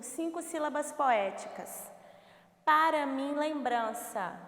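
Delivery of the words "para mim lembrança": "Para mim lembrança" slow and complete; measured reading of "Para mim lembrança"; slow verse reading. Shown as a demonstration. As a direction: read "Para mim lembrança" slowly, final syllable included. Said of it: "a última sílaba tônica".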